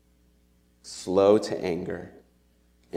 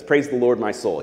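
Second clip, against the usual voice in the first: higher and louder, ringing out the praise; exultant call; 5 semitones higher, 6 dB louder than usual. Acted. Preacher quoting David's song, calling out loudly. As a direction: lift it like a shout of worship.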